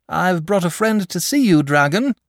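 called out high and loud; boy announcing a visitor to the sleepy dragon, loudly; rather loud. A narrator's reading. Boy calling to the dragon, high and loud. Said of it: "rather loud".

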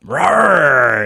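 playful mock roar; jaguar. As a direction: growl it like a big cat. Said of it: "make the Jaguar growl when you fire it up".

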